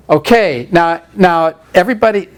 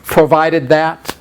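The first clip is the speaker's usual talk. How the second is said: "Provided that" said slowly with a rise; explaining; much slower than usual. Shown as a demonstration. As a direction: stretch out "Provided that" slowly, rising at the end. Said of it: "You know what a proviso is?".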